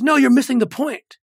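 a hint of the father pushing back; firm correction. Father corrects the speaker firmly.

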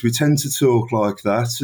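lightly put-on Brummie; a touch of broader Birmingham accent. Shown as a demonstration. Guest showing listeners how Brummies talk, Brummie accent. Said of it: "your listeners may know Brummers".

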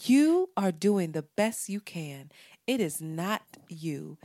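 lightly spoofed affirmation voice; mock affirmations. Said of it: "make hood rat affirmations".

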